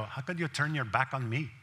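a light, self-mocking Indian accent; lightly put-on Indian accent on the complaint; horrible Indian accent. Pastor mimics his friend's Indian accent, lightly. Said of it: "It's a horrible Indian accent".

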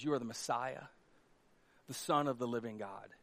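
soft, low, reverent confession; Peter's quiet awe-struck confession to Jesus; hushed confession. Retold or imitated. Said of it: "And Peter says".

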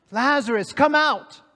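booming command, mounting on come out; commanding call. Acted. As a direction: call him out of the grave. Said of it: "he called out to him".

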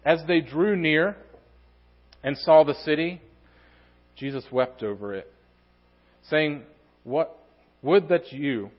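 measured scripture reading with pauses between phrases. Acted. Preacher reads Jesus weeping over the city to congregation, scripture reading. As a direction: read the verses out solemnly, phrase by phrase.

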